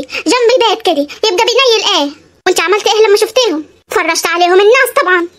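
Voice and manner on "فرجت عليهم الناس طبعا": crying through the words; daughter-in-law telling her mother-in-law; tearful. Acted. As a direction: hold back sobs.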